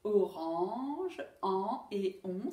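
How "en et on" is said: en and on said slowly, apart; careful contrast. Shown as a demonstration. Teacher contrasting sounds for pupils, slow. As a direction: mark en as open, on as rounded. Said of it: "pas tout à fait la même chose".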